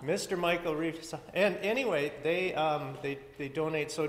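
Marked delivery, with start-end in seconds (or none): 0.0-1.2 laughing. Real, not acted. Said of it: "I ran out of breath even just saying that".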